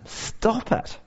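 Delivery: breathy whispered plea; whispered stop it. Retold or imitated. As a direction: hush it out.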